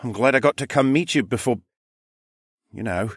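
mild sadness, trailing away; tearful. Acted. Son to his dying mother, a touch tearful. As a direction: start high, then falter. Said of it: "wiped away another tear".

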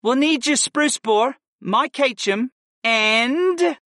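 lightly voiced sly young woman; a hint of a scheming grin. A narrator's reading. Layla voiced.

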